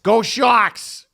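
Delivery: loud cheer, pitch up; cheering fan. Retold or imitated. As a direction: shout it like a proud fan in a hotel lobby. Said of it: "they said it like that".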